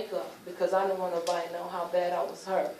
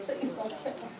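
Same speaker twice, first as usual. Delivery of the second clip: retold pleading; 7 semitones higher than usual. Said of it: "I'm begging them".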